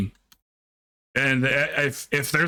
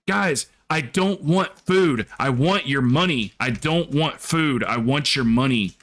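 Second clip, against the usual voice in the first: mock demanding streamer; 2 semitones higher than usual. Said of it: "she goes".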